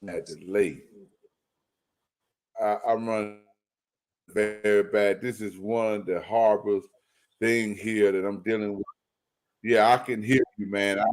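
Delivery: choppy, dropping out like bad radio; breaking up. Real, not acted. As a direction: voice cutting in and out. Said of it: "you breaking up real bad".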